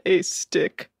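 stiff, spoken laugh, deadpan; Rob. Retold or imitated. Host as Rob laughing at his own joke, deadpan. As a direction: say each ha separately, without any mirth. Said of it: "What's that, Rob?".

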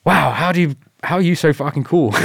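high, loud starstruck gush; mock awe. Recruit gushing at his instructor, high starstruck awe.

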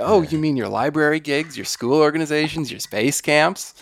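very high sarcastic whine; high mocking singsong. Mocking life taking gigs away.

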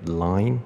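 "line" ending on n, lips kept apart; N结尾发音. Shown as a demonstration. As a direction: finish "line" on an N without closing the lips. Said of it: "视为一个N结尾". (念line，以N结尾，不闭嘴)

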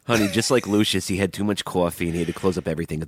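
quick comic New York dog owner; put-on New York accent. Comparing co-host to the dog, put-on New York accent. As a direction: run it off in mock New York. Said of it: "my trigger words are honey and dog".

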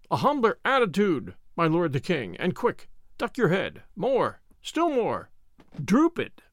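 mild urgent instruction; urgent coaching. Acted. Urging king to bow quickly.

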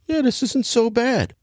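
silly impression of an old tough guy easing in; mock Nick Nolte. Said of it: "Nick Nolte's like".

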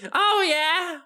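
high, breezy royal yes; high queen voice. Pretend. Pharaoh Victoria granting time travel, high and breezy. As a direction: toss off permission like a queen.

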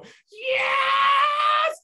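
loud high triumphant shout of yes; retold victory cry; triumphant yell. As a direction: punch the air and yell it.

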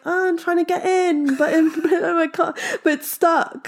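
half-laughing, half-crying with embarrassment; laughing embarrassed plea. Retold or imitated. Stuck in the revolving door, pleading with the manager, laughing nervously.

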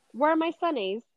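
a playful stab at an Aussie; lightly done Australian accent. Acted. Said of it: "Mine is like".

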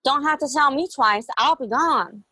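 high sarcastic comeback. Retold or imitated. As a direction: snap back, fine then. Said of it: "I was like".

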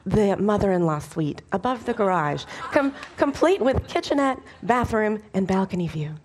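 lightly voiced gushing realtor; a hint of a salesy real estate agent. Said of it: "God in his best realtor voice".

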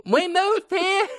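Southern character. Acted. Playing a Southern Gummidge family member.

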